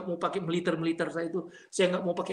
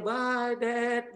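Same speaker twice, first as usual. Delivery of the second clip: put-on a drawn-out, higher little-kid goodbye; lightly voiced small child; 5 semitones higher than usual. Five-year-old saying goodbye to dad in Japan, lightly imitated child voice. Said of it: "Anak saya gede, tadi, yang tadi umur lima tahun ya".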